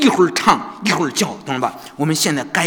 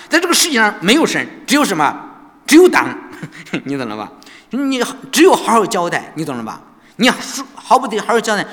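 louder, higher taunting; mock him, jeering and louder; mocking guards; 3 semitones higher, 4 dB louder than usual. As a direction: sneer down at the crippled prisoner. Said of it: "他们都嘲笑说".

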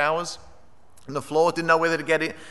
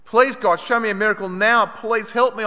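higher-pitched retold plea; desperate prayer; 4 semitones higher, 3 dB louder than usual. Trapped survivor asks God for a miracle, pleading. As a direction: beg God for help right now. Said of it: "I prayed".

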